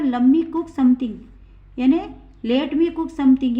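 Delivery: slow, clear example for students; teacher reading it out slowly to the class; slow model sentence. Shown as a demonstration. Teacher models the sentence, slow and clear. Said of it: "दूसरा example है".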